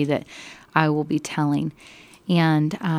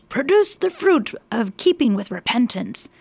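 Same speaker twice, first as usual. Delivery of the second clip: shouting; 2 semitones higher than usual. Acted. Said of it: "he's just shouting at them".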